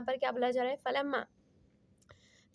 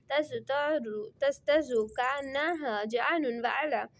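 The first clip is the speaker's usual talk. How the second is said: Quran recitation. Acted. Teacher recites Quran verse.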